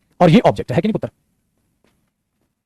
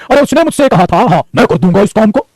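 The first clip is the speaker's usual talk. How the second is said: raised "उसने मुझसे कहा था", pause, then "मैं कर दूंगा"; pause before the quote. Shown as a demonstration. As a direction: break after "कहा था", then slower quoted words. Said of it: "real life में हम ऐसे ही बोलते हैं". ("कहा था" पर रुककर "मैं कर दूंगा" बोलें)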